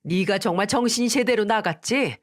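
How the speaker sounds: a moderately acted angry rant; furious scolding. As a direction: berate your daughter-in-law, half-acted. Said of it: "듣기 험한 쌍욕을 퍼부으셨어요".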